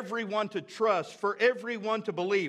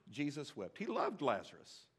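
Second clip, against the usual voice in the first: dropped to a near hush, much lower and softer; hushed reverence; 7 semitones lower, 12 dB quieter than usual. Real, not acted. Preacher repeating the verse to the church, hushed. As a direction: breathe it out reverently.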